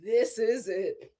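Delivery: mock sobbing, slow, voice breaking; crying baby. Voicing the crying baby lamenting her life, mock sobbing. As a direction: whimper it like a broken child. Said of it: "That poor child just started breaking down".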